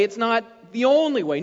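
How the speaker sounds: lightly voiced doubter saying "only" with a shrug; mock objection. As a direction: play the skeptic who waves off "only". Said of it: "Well, it's my way".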